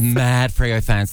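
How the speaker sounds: drawn-out stress on "Mad Freo fans"; deadpan slow repeat of "Mad Freo fans"; slow emphatic echo. Real, not acted. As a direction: savour each word of "Mad Freo fans" slowly. Echoing co-host's phrase, slowly.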